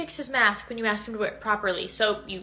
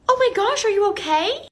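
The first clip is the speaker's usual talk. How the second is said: alarmed concern; 7 semitones higher, 7 dB louder than usual. Acted. Teacher alarmed by limping student.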